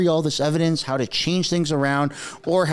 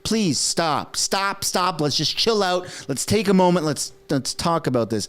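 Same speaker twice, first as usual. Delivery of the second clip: mock panicked backpedaling; 3 semitones higher than usual. Guilty person stopping a call to the cops, mock panic. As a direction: play at hastily talking someone down. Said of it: "that is exactly how the Liberals are acting".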